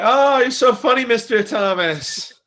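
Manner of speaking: high, loud fawning voice; hammed-up admirer, slowing on the name; mock flattery. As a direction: gush in a put-on high voice. Acts out fawning parlor workers.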